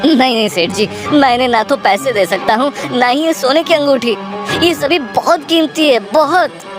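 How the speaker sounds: high, anxious protest rising in pitch; distressed refusal. Acted. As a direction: plead to keep your valuables. Farmer refuses to give up valuables. (घबराया हुआ इनकार)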